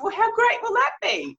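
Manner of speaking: high, loud, laughing mock delight; bright laughing quip to break the mood. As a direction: laugh it out as a cheeky joke. Joking to break client's state.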